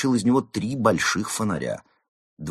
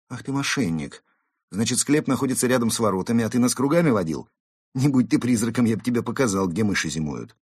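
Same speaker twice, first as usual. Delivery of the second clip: angry cat scolding; 5 semitones higher, 4 dB louder than usual. Acted. Cat scolds lying guide.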